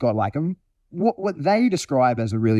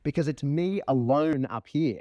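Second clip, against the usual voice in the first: higher-pitched dog complaint; aggrieved dog; 4 semitones higher, 4 dB quieter than usual. Acted. Dog let down by the person beside it, higher aggrieved voice. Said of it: "the dog's like".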